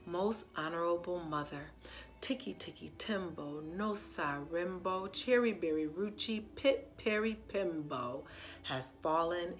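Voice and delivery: low, soft, slow and careful; calm yourself and say each word slowly. Acted. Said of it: "he said very slowly".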